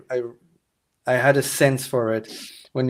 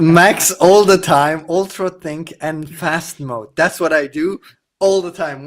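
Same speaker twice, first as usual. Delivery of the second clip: hyped up; 3 semitones higher than usual. Acted. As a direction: ham up the bragging. Hyping up maxed-out settings.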